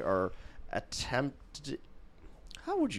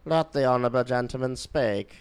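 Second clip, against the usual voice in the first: imitating Michael Martin, stammered calls of order; shouting order order; 3 semitones higher, 5 dB louder than usual. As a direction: call order order in a faltering old Belfast speaker voice. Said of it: "And he says".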